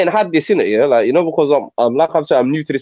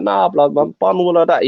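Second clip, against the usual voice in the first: put-on higher Tottenham street accent; 3 semitones higher than usual. Speaker among locals in Tottenham, Tottenham accent. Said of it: "when I'm in Tottenham".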